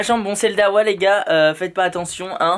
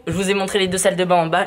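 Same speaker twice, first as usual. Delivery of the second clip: hallway echo; faster than usual. Real, not acted. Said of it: "ça résonne ici".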